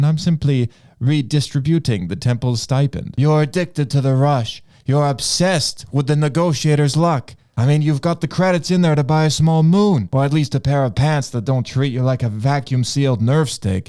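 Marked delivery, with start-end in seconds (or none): 3.2-13.9 Anakin. Acted.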